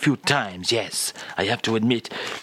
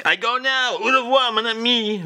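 French farewell; 10 semitones higher than usual. Acted. Charles leaving the studio, hammed-up French farewell. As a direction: bid adieu with a flourish.

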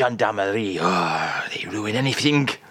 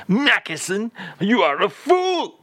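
mock scolding; 8 semitones higher than usual. Host mock-scolding Charles over a drink. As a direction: tell him off in jest.

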